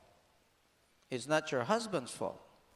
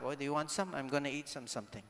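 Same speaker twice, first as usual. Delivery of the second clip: light offer; 3 semitones lower, 7 dB quieter, faster than usual. Retold or imitated. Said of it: "I ask my wife".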